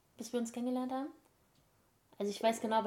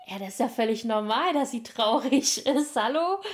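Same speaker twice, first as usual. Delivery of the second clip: indignant father; 6 dB louder than usual. Retold or imitated. Father voiced defending her.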